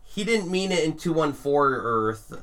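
slow, nitpicky superfan; nerd voice. Retold or imitated. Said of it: "Are you using a nerd voice right now?".

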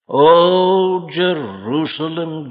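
Jerusalem, rising cry then slowing and falling; mourning call of Jerusalem, drawn out; lament. Acted. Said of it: "Can you hear this note of lament?".

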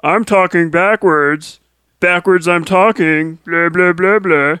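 mocking Yoda, inverted word order; backwards speech. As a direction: play the little swamp master, slow and lofty. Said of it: "who can't talk right".

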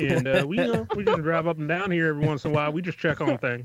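lightly twanged country ranger introducing himself; mock small-town ranger, easygoing; white boy ranger. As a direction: play a folksy Southern patrolman. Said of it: it's the voice the speaker was doing.

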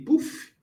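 quick high-pitched puff of sound; a short "puf" like hitting play; imitated "puf" noise. Co-host showing how the audio should just be played, imitated puff.

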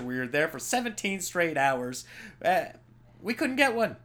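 lightly acted, high-pitched exasperation; complaint to the judge. Police complaining to the judge about mugshots, mock exasperation. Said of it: "where they're like".

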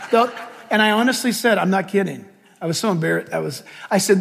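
ordinary talk

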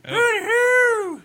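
very high, slow silly singsong; silly falsetto. Pretend. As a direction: croon it up in falsetto, slowly. Silly sung vocal warmup.

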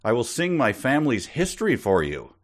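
mildly put-on eager offer to kids; storyteller host. The host offers to sing for the kids, eager host. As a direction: pitch it up, inviting the kids.

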